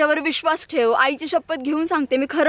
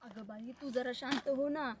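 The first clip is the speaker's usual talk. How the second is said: hushed plea; 5 semitones lower, 18 dB quieter than usual. Acted. तू जरा हळू बोल ना, कोणतरी ऐकेल.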